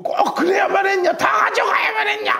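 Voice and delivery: high, wailing lament; crying lament. Acted. Preacher voicing David's men, a high wailing lament. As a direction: cry it out to heaven, voice up high. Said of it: "막 이러면서".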